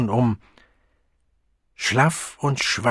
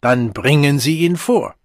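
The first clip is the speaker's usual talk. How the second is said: sobered but still stately command; majestic; 3 semitones higher, 6 dB louder than usual. A narrator's reading. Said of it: "noch immer höchst majestätisch".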